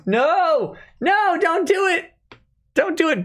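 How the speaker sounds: high, hammed-up begging; mock pleading. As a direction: plead with him like it's a tragedy. Begging a fan not to leave.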